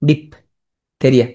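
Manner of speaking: slow ডিপথেরিয়া as "dip ... theria"; split for spelling. Shown as a demonstration. Teacher noting the ph, slow split ডিপথেরিয়া. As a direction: pause after "dip" in ডিপথেরিয়া. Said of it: "পিএইচ আছে".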